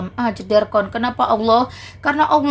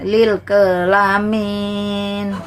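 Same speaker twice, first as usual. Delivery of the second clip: mocking laugh; much slower than usual. Mocking pun on lil alamin.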